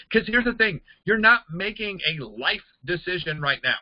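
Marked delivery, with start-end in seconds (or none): none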